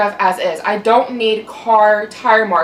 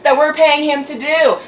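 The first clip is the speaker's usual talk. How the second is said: angry ranting; 4 semitones higher, 3 dB louder than usual. Real, not acted. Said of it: "Now I'm yelling at you guys".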